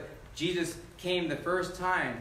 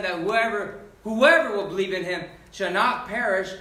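raised, driving sermon voice; emphatic preaching; 3 semitones higher, 4 dB louder than usual. Real, not acted. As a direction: preach it with rising force. Preacher builds to quoted verse.

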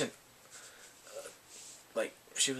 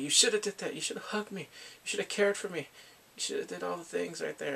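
raised, pleading complaint; acted reproach; 4 semitones higher than usual. She blames him for not consoling her, pleading.

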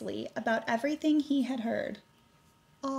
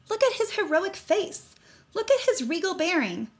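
marvelling; 8 semitones higher, 3 dB louder than usual. A narrator's reading. Kids marvelling at Grandpa.

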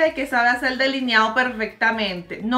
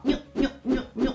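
mock painting noise; 4 dB quieter than usual. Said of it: "Está ahí como".

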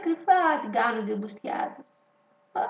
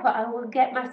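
showing off English accent; slower than usual. Shown as a demonstration. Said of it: "Είδατε τι προφορά έχω".

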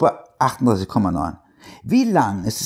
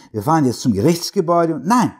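angry; 6 semitones higher, faster than usual. Acted. Husband cuts off wife angrily.

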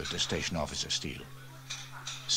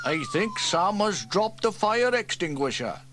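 higher, calmly noting; matter-of-fact fireman; 13 semitones higher, 5 dB louder than usual. Acted. Elvis calmly points out the falling extinguisher, mildly. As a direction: state it mildly.

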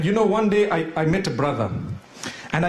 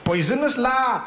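put-on Malaysian accent; 3 semitones higher than usual. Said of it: "in a Malaysian accent".

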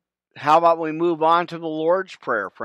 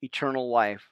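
prayer. Real, not acted. Closing prayer to viewers.

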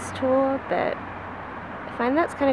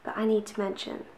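soft hushed morning voice; quiet at night; 8 dB quieter than usual. Real, not acted. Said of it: "I'm whispering because I don't wanna wake anyone up".

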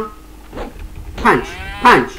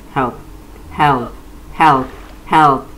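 calling for help; much slower than usual. Pretend. Drowning in game, calling out.

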